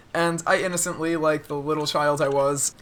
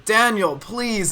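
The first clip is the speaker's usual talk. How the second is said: mock stern scolding, higher, falling on each word; angry, stern voice; 5 semitones higher, much slower than usual. Someone at a competition mimicking the teacher, mock angry and stern. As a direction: imitate a cross teacher's reprimand. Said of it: "in a really angry and stern voice".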